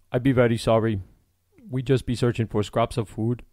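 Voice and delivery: a hint of a frightened runaway begging; nervous voice. Runaway man begs the armed smith, mildly nervous. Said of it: "exclaimed in a nervous voice".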